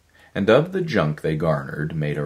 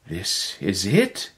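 smiling brightly; 3 semitones higher, slower than usual. Acted. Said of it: "he smiled brightly".

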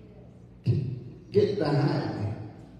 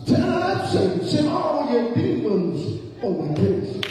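defiant shout; 7 semitones higher, 4 dB louder than usual. Acted. Defying Satan, calling out.

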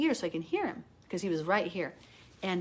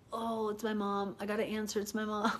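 cringing dread; 2 semitones higher, 4 dB quieter than usual. Retold or imitated. Daughter sees mother's number, mock cringing dread. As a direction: imitate dreading a call you must answer. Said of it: "I saw the phone number and I cringed".

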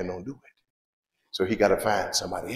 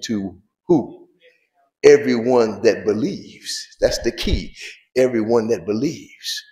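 slow, strong scripture reading with drawn-out key words; emphatic scripture reading; 5 dB louder, slower than usual. Acted. Preacher reads scripture to the congregation, slow and emphatic. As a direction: read the verse out firmly, stretching key words.

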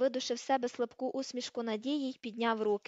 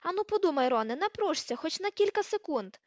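high, loud sarcastic goading; biting, raised-voice mockery; caustic sarcasm; 5 semitones higher, 4 dB louder than usual. A narrator's reading. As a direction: goad him scornfully. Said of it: "з ядучим сарказмом заволала Герміона".

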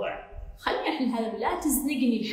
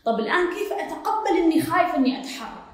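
higher, laughing through her question; half-laughing as you mock her muddle; laughing mimicry; 6 semitones higher, 3 dB louder than usual. Mimicking the asker's confused question. (بضحكة وهي تقلد حيرة السائلة)

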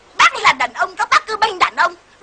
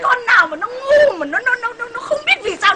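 mock outraged outburst, higher; acted exasperated rage; 4 semitones higher than usual. Husband scolds wife for not knowing why, mock exasperated. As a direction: burst out at her stupidity.

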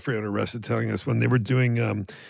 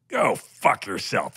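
deadpan brush-off; much slower than usual. Retold or imitated. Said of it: "Rip looks at him and goes".

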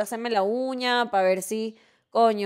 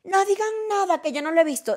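mock whiny plea; 8 semitones higher than usual. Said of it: "y voy yo a decir".

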